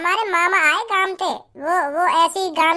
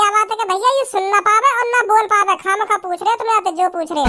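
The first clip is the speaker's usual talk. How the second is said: exasperated, fast-running telling-off; angry scolding; faster than usual. Acted. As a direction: berate them for wasting your time. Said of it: "वैसे ही डांट रहे गुस्सा में". (गुस्से में झुंझलाकर डांटना)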